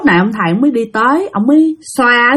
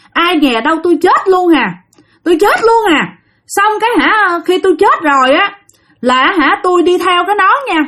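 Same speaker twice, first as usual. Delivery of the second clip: put-on much higher, rushed voice of a dead teen; voicing a young ghost, higher and faster; ghost's lament; 7 semitones higher than usual. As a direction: plead your story as the spirit. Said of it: "Nó nói vậy đó".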